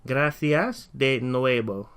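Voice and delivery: "nuevo" said "nuebo", slowly; teacher showing the V said as B. Shown as a demonstration. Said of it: "the V sound is actually pronounced as a B".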